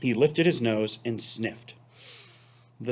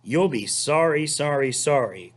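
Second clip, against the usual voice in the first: lightly voiced goose warning; 3 semitones higher than usual. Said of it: "called the goose".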